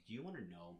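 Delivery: chewing while talking; words around a mouthful; mouth full. Real, not acted. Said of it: "I'm eating peanut butter pretzels".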